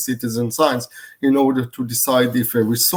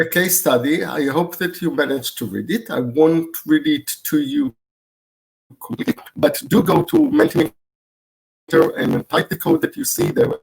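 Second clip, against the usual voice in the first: robot voice; 4 semitones higher than usual. Real, not acted. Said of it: "the sound is not good".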